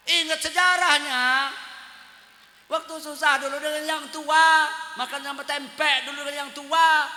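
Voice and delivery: preacher scolding husbands who forget the first wife, loud. Real, not acted. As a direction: lecture the husbands firmly.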